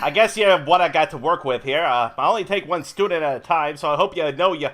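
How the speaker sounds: New York cabbie. Acted. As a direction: talk like a cabbie turned dance teacher. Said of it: "Old Job, New Job with Melanie and Chad".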